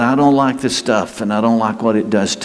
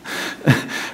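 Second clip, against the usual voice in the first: soft, voiceless chuckle; short chuckle; 6 dB quieter than usual. Real, not acted. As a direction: let out a brief breathy laugh. Laughs at his own remark.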